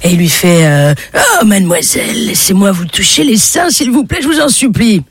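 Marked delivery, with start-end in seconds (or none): 1.4-5.0 a hint of pleading old lecher; lightly voiced old man. Old man begging a girl on the beach, imploring. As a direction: beg her, rising at the end. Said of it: "un vieux monsieur".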